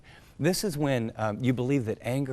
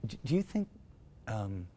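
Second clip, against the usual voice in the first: gentle asking; 6 dB quieter than usual. Shown as a demonstration. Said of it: "Be gentle and just ask".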